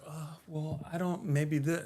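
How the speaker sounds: soft, unsure mock mumbling; hesitant dithering. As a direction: imitate a group that can't decide. Imitating an indecisive group.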